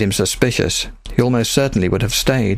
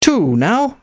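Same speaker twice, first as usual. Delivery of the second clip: put-on higher, thick-accented rebel captain, proud; accented pirate captain; 11 semitones higher than usual. A narrator's reading. Pirate captain recruiting Nicholas to her fleet, thick accent. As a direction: speak as a bold foreign pirate captain. Sophia speaks.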